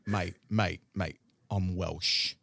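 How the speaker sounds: low, slow Welsh "mate, mate, mate"; Welsh accent. Retold or imitated. Friend correcting him in a slow Welsh accent. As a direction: drawl it out like a proud Welshman. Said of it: "He goes".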